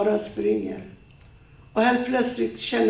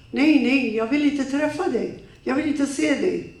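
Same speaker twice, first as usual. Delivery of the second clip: higher, urgent refusal; frightened refusal; 4 semitones higher than usual. Acted. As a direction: push him away in panic. She refuses him on phone.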